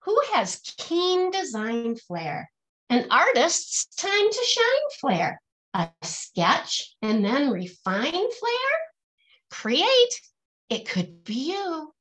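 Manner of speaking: rhythmic, lilting picture-book verse; reading to children. Acted. Teacher reading a rhyming picture book aloud to her class, lilting and rhythmic. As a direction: bounce each rhyme for the kids, then land the refrain.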